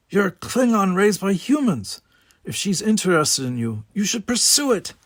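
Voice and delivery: a lightly voiced younger brother nudging him; Simon's voice. A narrator's reading. Simon urges Worf.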